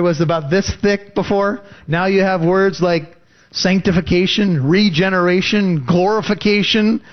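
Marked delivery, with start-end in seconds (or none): none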